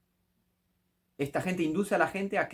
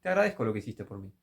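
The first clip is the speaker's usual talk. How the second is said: lower, quick dismissive parody of a prayer; mocking the ego-driven prayer, lower and rushed; 4 semitones lower, faster than usual. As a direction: toss it off like a smug thank-you. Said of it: "esta gente alimentando el ego".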